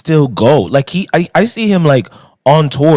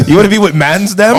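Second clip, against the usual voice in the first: higher London roadman slang, laughing; london roadman accent; 5 semitones higher than usual. Retold or imitated.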